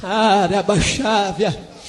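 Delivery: very slow, low drawn-out tongues; slow murmured tongues; speaking in tongues. Real, not acted.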